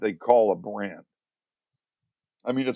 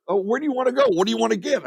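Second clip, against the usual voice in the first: higher mock wife voice; husband imitates his wife's question in a higher voice; mimicking his wife; 9 semitones higher, much faster than usual. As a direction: play the wife, pitched up and light. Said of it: "She goes".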